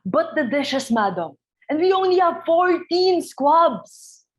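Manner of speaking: dismayed. Acted. Butler dismayed about food.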